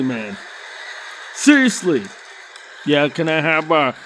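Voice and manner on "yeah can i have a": mumbled order. Retold or imitated. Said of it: "I don't say it like that".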